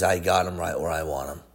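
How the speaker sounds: low, quiet sinister devil gloating; devil's voice. Acted. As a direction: purr it low like Satan with his prey. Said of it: "And then he says".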